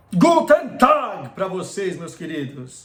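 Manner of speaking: worst-possible, terrible put-on German accent. Host greets Bundesliga fans at the start of the show, horrible German accent. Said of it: "no horripilante sotaque alemão".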